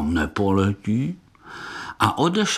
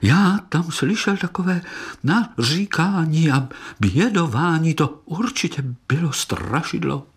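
higher, trembling scared voice; scared child beetle; 7 semitones higher than usual. A narrator's reading. Terrified little beetle tells his uncle about the ghost. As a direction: tell it wide-eyed and frightened. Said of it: "třásl se jako osika".

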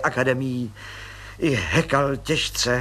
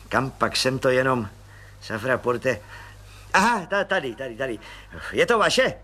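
Pištora voice. Acted. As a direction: pipe it up like a cheerful small policeman. Pištora searches his pocket.

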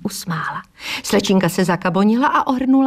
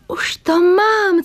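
a high, louder, slow už to mám; sudden eureka; 11 semitones higher, 6 dB louder, much slower than usual. Acted. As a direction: burst out with the idea. Sudden idea.

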